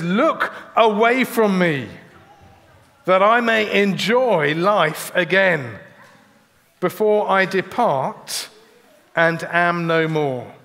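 slow, heavy reading of the plea; weary, drawn-out plea; slow lament. Acted. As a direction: let each phrase fall away slowly. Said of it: "He says".

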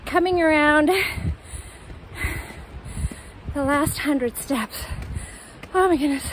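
winded near the top of the stairs; gasping words between breaths. Real, not acted. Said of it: "Hard to talk".

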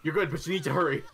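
loud, fast urging; urgent. Real, not acted. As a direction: hurry them along. Urging teammate to arrive.

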